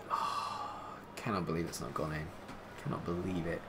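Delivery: soft, low, whispered disbelief; deflated murmur. Real, not acted. Gutted after Lionel's miss, soft and deflated. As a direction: let it all drain out.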